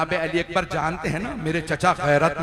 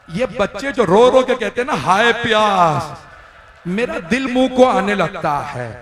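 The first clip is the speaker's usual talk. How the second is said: higher, louder grief-stricken cry; anguished lament; 3 semitones higher, 6 dB louder than usual. Acted. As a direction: let the voice break upward with grief. Preacher's rising lament.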